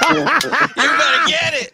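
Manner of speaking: slow, laughing through it. Real, not acted. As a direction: tease while laughing. Teasing the mom on air.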